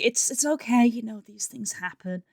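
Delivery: softening, retold reassurance; brave face. Wife hiding upset from husband, brave face. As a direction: play it down, trailing off softly. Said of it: "trying to put on a brave face".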